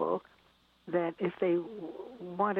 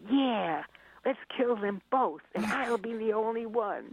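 put-on happy child; 4 semitones higher than usual. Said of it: "responded happily".

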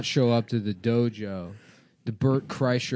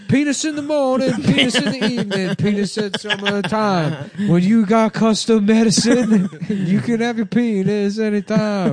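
hammed-up ad read; 8 semitones higher, 5 dB louder than usual. Mock ad read for dick pills.

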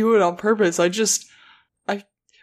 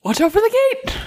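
warning shout; faster than usual. Acted. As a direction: yell a sudden warning across the room.

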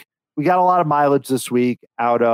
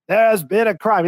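a bit higher, clipped mock announcement at normal pace; robotic mock host; 5 semitones higher than usual. Host greeting arriving players, quick robotic imitation. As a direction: rattle it off like a Disney ride robot. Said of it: "he's like a robot".

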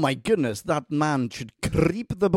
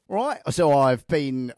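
slow, failed attempt at an Australian accent; bad Australian accent; slower than usual. Mimicking the Australian actor at the reading, bad Australian accent. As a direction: drag the vowels into clumsy Australian. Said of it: "I can't do Australian accent".

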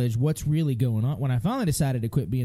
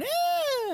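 very high squealing scream imitating a fussy toddler; imitated toddler scream. Father imitates his upset son's squealing scream. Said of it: "He starts squealing and screaming".

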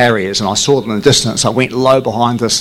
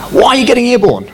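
higher, mock-indignant tower question; indignant controller; 12 semitones higher, faster than usual. Controller scolding the pilot, higher indignant voice. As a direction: demand why he took off. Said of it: "they're going".

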